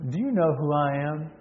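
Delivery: student's sly challenge; sly question. Acted. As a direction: ask it softly, with a sly smile. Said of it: "The student smiled slyly and asked".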